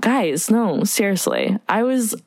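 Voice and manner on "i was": lightly voiced bubbly actress, talking out of the side of the mouth; Drew Barrymore impression. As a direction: pull your mouth to one side and gush like a chatty film star. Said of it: "Let's hear it".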